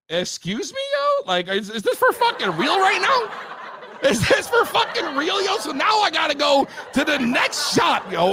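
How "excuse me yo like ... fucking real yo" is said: laughing through stunned disbelief, pitch raised; can't believe it, laughing it out. Real, not acted. Ranting to listeners about useless store, laughing disbelief.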